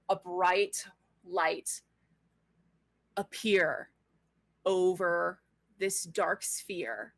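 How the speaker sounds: very slow, dramatic reveal; game master scene setting. A narrator's reading. Game master reveals light over darkness, slow and dramatic. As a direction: space out each phrase for suspense.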